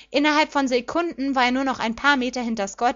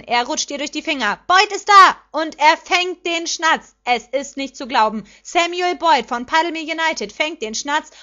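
loud, raised play-by-play, settling toward the final score; excited commentator; 4 semitones higher, 5 dB louder than usual. A narrator's reading. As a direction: call the winning catch for a roaring stadium. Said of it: "schrie der Kommentator aufgeregt".

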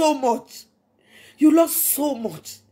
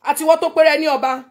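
defiant dare; 3 semitones higher, 4 dB louder, faster than usual. Real, not acted. Daring her enemies to attack her, loud and taunting. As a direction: dare them to try, scornful.

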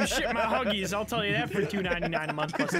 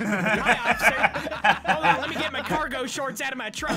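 louder, hammed-up white-guy voice, laughing; 4 dB louder than usual. Driver greeting officer at traffic stop, mock white voice. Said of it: "White voice again".

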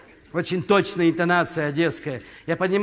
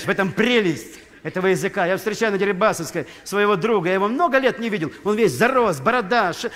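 normal talking voice

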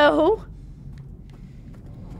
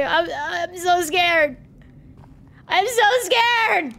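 slow whiny scared; slower than usual. Real, not acted. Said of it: "Guys, I'm scared".

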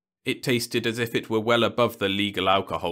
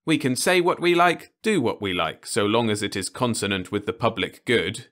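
higher, louder earnest reasoning; earnest young man; 4 semitones higher, 4 dB louder than usual. Acted. Ludovic explains their freedom, earnest young voice. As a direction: explain it as if obvious.

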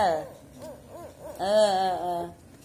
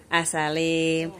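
coaxing; 4 semitones lower than usual. Acted. Coaxing the baby to greet.

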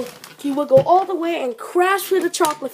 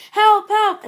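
higher, louder cry for help; calling for help; 6 semitones higher, 5 dB louder than usual. Acted. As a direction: call out in a panic. Brakeless Smudger calls for help.

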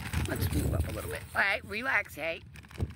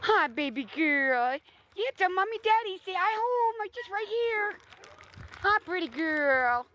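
much higher sing-song pet voice; 11 semitones higher than usual. Real, not acted. Owner coaxing a timid dog closer in high baby talk. Talking to huskies.

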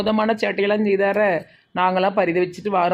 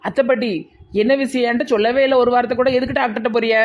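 alarmed questions; 5 semitones higher than usual. Acted. Neighbour startled to hear of a doctor visit, alarmed questions. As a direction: press her anxiously for news.

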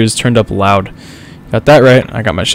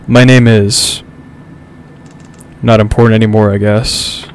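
lightly lowered, sultry narrator read; deep sexy narrator voice; 2 semitones lower than usual. Pretend. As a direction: purr the intro like a movie trailer. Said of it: "read this in my deep, sexy narrator voice".

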